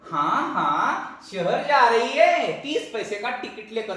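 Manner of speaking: a touch of laughter while mocking; teasing laugh. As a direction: chuckle through the conductor's teasing.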